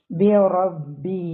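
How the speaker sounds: slow recitation with a held final vowel; Quran recitation. Shown as a demonstration. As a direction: draw out the end, reciting. Recites the verse.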